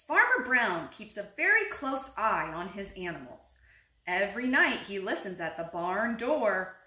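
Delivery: animated picture-book read-aloud; unhurried storybook telling; story narration. A narrator's reading. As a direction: read to little children, stressing key words.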